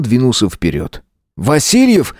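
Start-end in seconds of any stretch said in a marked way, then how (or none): 1.4-2.1 mild frightened shout. A narrator's reading. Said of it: "испуганно крикнул".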